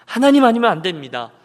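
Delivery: earnest cry of need; earnest plea. Acted. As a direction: plead it firmly, with urgency. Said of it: "그 간절함으로".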